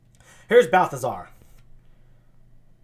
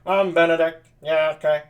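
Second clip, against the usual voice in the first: nasal voice. Shown as a demonstration. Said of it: "I gave kind of a nasally sound".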